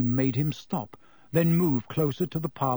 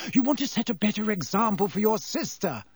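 sharp, higher scolding snap; snapping; 7 semitones higher than usual. A narrator's reading. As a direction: bite the words off like a cross mother. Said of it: "snapped Missus Weasley".

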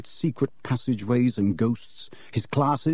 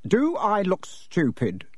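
snarl; 7 semitones higher, slower than usual. A narrator's reading. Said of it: "snarled Uncle Vernon".

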